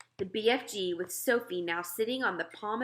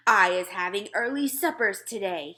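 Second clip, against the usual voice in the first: louder gloating giant shout; 7 dB louder than usual. Acted. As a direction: crow about supper, loud. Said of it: "he shouted".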